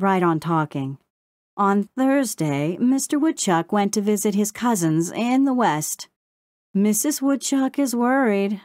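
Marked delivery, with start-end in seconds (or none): 1.6-8.6 sing-song. A narrator's reading. Crow reciting news to Brownie, sing-song. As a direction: announce it like a headline. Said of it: "in a sing-song voice".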